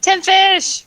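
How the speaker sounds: high, loud triumphant cry; excited cheer. Real, not acted. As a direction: crow over your big haul. Player celebrates her haul of fish.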